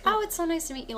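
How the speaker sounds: high-pitched overly nice greeting; too nice. Pretend. Talking to a fan, acting too nice. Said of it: "you're too nice".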